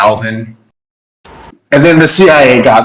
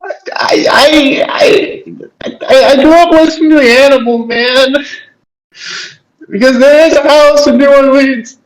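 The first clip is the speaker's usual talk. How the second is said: silly high voice; 12 semitones higher than usual. Pretend. Joking about a singer.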